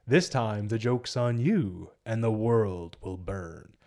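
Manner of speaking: lightly acted slow villain threat; slow down and sink away ominously; Joker. Villain telling Batman the joke's on him, slow and menacing. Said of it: "Joker's like".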